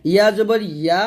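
ইয়া with a distinct y glide before "aa"; clear ya. Shown as a demonstration. Teacher modelling the letter for students, clear y in ইয়া. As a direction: start ইয়া firmly on the y. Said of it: "ইয়া বলতে হবে".

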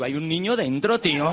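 loud mock horror; appalled protest. Comic to brother who stole an occupied cot, appalled outcry. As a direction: exclaim it loudly in disbelief.

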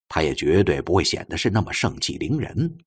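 ordinary delivery

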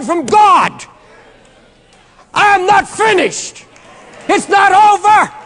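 full-force preacher shouting Paul's defiance; preaching scream. Acted. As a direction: scream it out to angels and demons, defiant. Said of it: "Forgive me for screaming".

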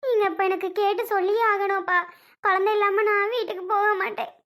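weepy, determined plea; upset and close to sobbing; tearful insisting. Acted. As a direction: hold your ground while crying. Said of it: "சரிம்மா, அழாத".

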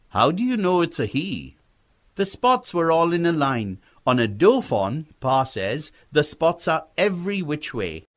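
put-on a boy keenly sharing what he knows; eager young boy.

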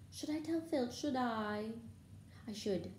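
lightly sanctimonious tease; saintly voice. A narrator's reading. Poltergeist threatening to tell on students, mildly saintly. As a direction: muse aloud with mock virtue. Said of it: "said Peeves in a saintly voice".

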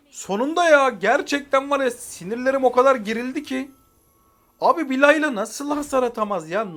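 real relieved rant; relieved outburst. Real, not acted. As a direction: let out pent-up frustration. Relief after win, venting.

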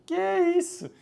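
high astonished squeak; amazed. Real, not acted. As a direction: disbelief at the result. Amazed at the cooked egg.

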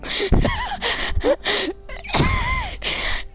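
long high-pitched cackle, trailing off; high laugh. Real, not acted. Laughing at his own British insult, high laugh.

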